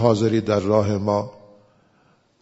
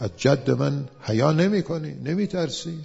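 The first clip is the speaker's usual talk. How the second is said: put-on old man's rebuke; 6 semitones higher than usual. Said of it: "old man said".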